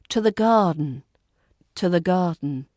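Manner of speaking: "to the" unstressed, linked straight into stressed "garden"; linked weak words. Shown as a demonstration. Teacher demonstrates connected speech, "to the" linked into stressed "garden". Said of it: "unstressed words often link to nearby stressed".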